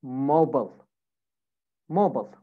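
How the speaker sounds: American "mobile", ending in a short "bull"; American accent. Shown as a demonstration. Teacher models American "mobile" for students, reduced last vowel. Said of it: "American accent".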